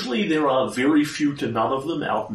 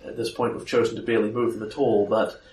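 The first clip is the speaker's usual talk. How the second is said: low, soft grizzled vigilante; a tired gunslinger, lower and softer; low gravel vigilante growl; 2 semitones lower, 4 dB quieter than usual. Acted. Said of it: "more your vigilante voice".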